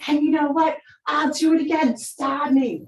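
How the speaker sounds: imitating a teen screaming in her face; daughter screaming. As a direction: scream the challenge back at mom. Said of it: "in my face screaming".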